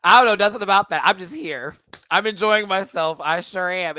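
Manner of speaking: high, loud mock innocence; Jada. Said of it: "I just did Jada".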